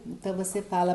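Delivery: normal talking voice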